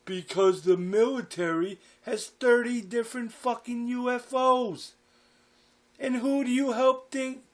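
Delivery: acted outburst from a fed-up father; exasperated rant. Father ranting about his secret job.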